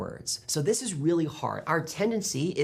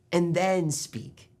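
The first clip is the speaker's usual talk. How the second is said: smiling voice; 3 semitones higher, much slower than usual. Shown as a demonstration. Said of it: "start smiling first like this".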